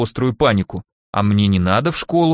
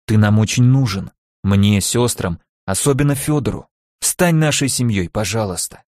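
hopeful pleading. Acted. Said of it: "быстрее с надеждой и просьбой".

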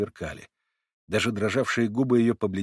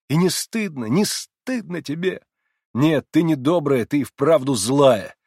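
high, loud slow reproach; scolding; 5 semitones higher, 6 dB louder than usual. A narrator's reading. Narrator scolding the girl, high loud reproach. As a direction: scold her hotly.

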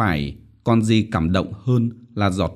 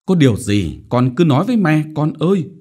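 higher, soothing coaxing plea; coaxing mother; 7 semitones higher, 5 dB louder than usual. A narrator's reading. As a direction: coax her daughter to confide. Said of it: "Me dỗ dành". (dỗ dành âu yếm)

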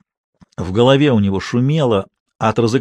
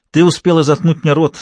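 perky; 5 semitones higher, 3 dB louder than usual. Acted. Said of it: "задорно ответил Смеляков".

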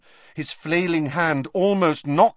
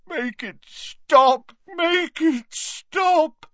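high, very slow anguished moan; 4 dB louder, much slower than usual. Acted. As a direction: moan it, drawn out in pain. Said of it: "moaned Dumbledore".

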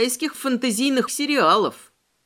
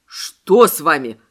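worried question; 4 semitones lower, 6 dB louder, slower than usual. Acted. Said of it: "встревожился качок".

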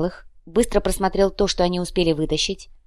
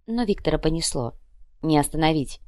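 ordinary delivery

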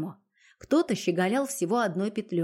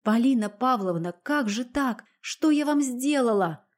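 understated moaning reproach; moaning plea; 4 semitones higher than usual. Acted. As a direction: beg her through a groan of despair. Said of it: "простонала".

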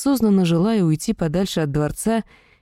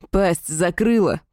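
demon growl; slower than usual. Acted. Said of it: "прорычал второй".

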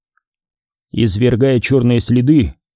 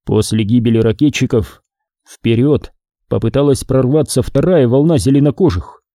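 usual speaking voice

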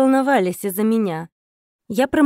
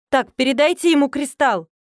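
hammed-up command, not full force; mild roar; 3 semitones higher than usual. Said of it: "взревела я". (слегка наигранный рёв в трубку)

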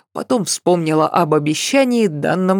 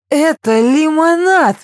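much higher, louder indignant cry on "лимонад"; 10 semitones higher, 4 dB louder than usual. Acted. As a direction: protest it's lemonade, outraged. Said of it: "возмутилась я".

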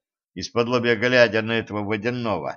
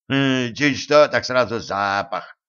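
grumbling; slower than usual. Acted. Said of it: "заворчал Каналюга".

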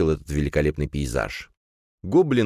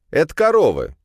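excited; 11 semitones higher, 6 dB louder than usual. Acted. Kirill thrilled to see cows.

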